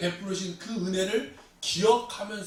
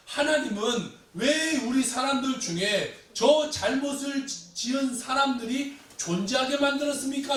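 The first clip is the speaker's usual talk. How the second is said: higher-pitched, insistent protest; Habakkuk's aggrieved questioning, pitched up; challenging God; 5 semitones higher than usual. Acted. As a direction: demand an answer from God. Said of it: "하박국이 하나님께 막 따지는".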